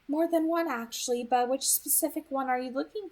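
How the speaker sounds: a hint of an amused, knowing girl; Edith's voice. Edith teasing Beau about his questions, amused lilt.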